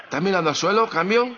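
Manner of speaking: can't believe he's looking down; incredulous. Acted. Incredulous partner over radio.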